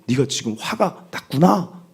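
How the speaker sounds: slow, lightly imitated counsellor's sympathy; acted empathy. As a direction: reflect a child's feeling back, unhurried. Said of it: "라고 공감해주는 공감". (공감하는 말투로 천천히)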